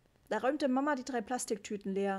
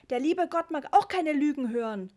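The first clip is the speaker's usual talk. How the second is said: put-on high, loud cross little boy; a small kid bawling out his parents; child yelling; 6 semitones higher, 8 dB louder than usual. A narrator's reading. Ritchie yells at his parents about the rain, high and loud. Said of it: "brüllte Ritchie wieder".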